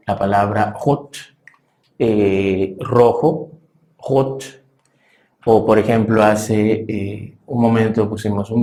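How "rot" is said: hot: r gutural al inicio, rot; r gutural alemana. Shown as a demonstration. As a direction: di hot con r de garganta. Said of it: "al principio o en medio es gutural". (hot con r uvular)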